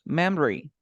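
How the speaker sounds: "Memory" said as two syllables, mem-ree. Shown as a demonstration. Teacher models the word for a student, "Memory" in two syllables. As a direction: drop the middle vowel of "Memory", mem-ree. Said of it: "Okay, two syllables".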